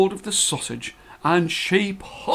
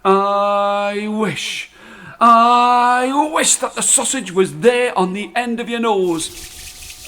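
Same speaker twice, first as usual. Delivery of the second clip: higher, exasperated scolding; mild cross old wife; 7 semitones higher, much slower than usual. Acted. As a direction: scold him then cast the wish in a huff. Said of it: "who was so cross with him".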